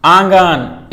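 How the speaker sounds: आंगन said slowly, first vowel sent through the nose; slow demonstration of nasal आँ in आंगन; emphatic nasal vowel. Shown as a demonstration. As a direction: stretch the nasal opening of आंगन. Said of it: "नाक से ज़्यादा sound निकलने".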